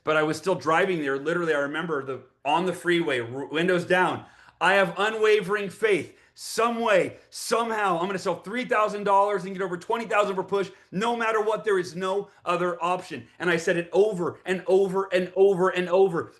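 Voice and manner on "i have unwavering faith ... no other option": retold pep talk to oneself, slightly raised pitch; fired-up affirmation. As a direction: recite it with firm conviction. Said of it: "I was so fired up".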